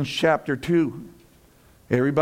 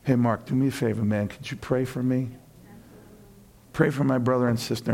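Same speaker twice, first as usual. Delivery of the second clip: lower, softer pleading friend; a humbled friend asking quietly for help; asking for prayer; 5 semitones lower, 3 dB quieter, faster than usual. Retold or imitated. Friend in crisis asking Mark to pray, softly. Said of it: "what happens?".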